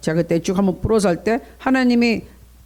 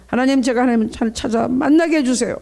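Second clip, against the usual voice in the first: earnest prayer; 2 semitones higher than usual. Shown as a demonstration. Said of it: "간절하게 기도하세요".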